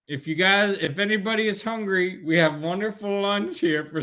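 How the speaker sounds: high, loud, overeager stadium announcer; mock announcer pitching lunch to the crowd. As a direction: sell the overpriced lunch like a cheesy MC. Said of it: "the guy's like".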